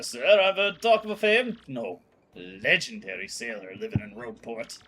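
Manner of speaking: lightly voiced salty deckhand; a hint of a gruff sailor offering help; rough sailor. Deckhand pitching a solution to the boss, lightly voiced.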